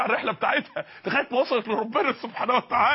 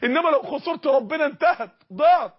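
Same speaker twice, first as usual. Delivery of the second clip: rising warning; 3 semitones higher, 3 dB louder than usual. Real, not acted. Sermon climax.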